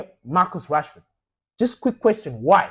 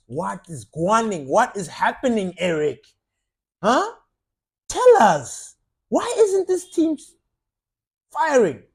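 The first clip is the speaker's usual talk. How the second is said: mock pushy reporter. Journalists grilling the manager.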